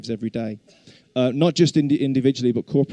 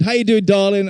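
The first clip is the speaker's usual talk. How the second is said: imitating wife; 8 semitones higher, 6 dB louder than usual. Wife's text voiced sweetly.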